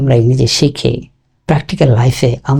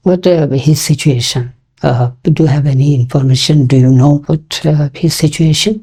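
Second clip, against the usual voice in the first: slow natural version; much slower than usual. Shown as a demonstration. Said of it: "বলি কিন্তু এভাবে, এভাবেই বলতে হবে".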